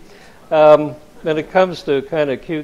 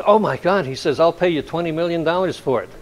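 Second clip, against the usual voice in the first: excited producer; 5 semitones higher than usual. Retold or imitated.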